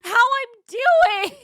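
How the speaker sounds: high, indignant complaint. Retold or imitated. Scolding her boyfriend for not asking, high indignant complaint. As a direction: demand sympathy, offended. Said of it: "I'm like".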